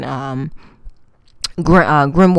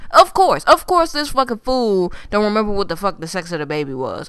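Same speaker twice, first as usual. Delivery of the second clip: exasperated outburst; faster than usual. Retold or imitated. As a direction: blow up in disbelief at the show. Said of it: "And I was like".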